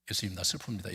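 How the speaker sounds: a buttoned-up, polite plea; prim prayer. Retold or imitated. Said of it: "점잖게". (점잖게 속삭이듯 하는 기도 흉내)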